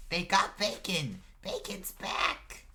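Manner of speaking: put-on high, loud child's announcement; excited little boy. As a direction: call the big news out to mom. Boy shouts news to his mother.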